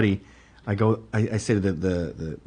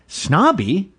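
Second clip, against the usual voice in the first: Snobby? thrown back higher with a rising question; incredulous echo; 7 semitones higher than usual. Real, not acted. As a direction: repeat Snobby? as if you can't believe it. Host echoes word in disbelief.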